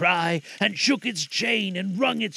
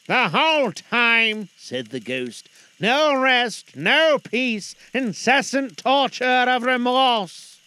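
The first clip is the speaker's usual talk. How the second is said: high, loud, slow ghost voice; unearthly voice; 7 semitones higher, 6 dB louder, slower than usual. Acted. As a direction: drag each word like a chain. Ghost speaks.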